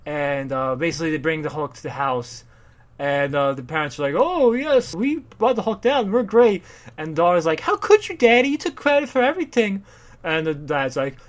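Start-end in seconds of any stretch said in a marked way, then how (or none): 4.2-6.6 high, loud, self-satisfied voice; mock boastful parents; smug rich parents. 7.6-9.8 very high, loud, indignant squeal; mock betrayed daughter; outraged daughter. Daughter accusing father.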